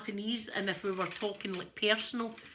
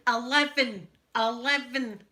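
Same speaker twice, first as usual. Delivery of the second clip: louder, imitated exasperation; mental with frustration; 3 semitones higher, 7 dB louder, slower than usual. Man in lift shouting at voice control, exasperated. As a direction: punch each one out, mock fury. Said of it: "going absolutely mental".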